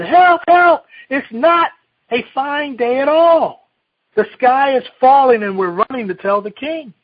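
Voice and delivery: high, loud frantic cry, slowing at the end; hammed-up panicked birds crying out together; mock panic chorus. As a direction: shout it like scared barnyard birds. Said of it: "together said".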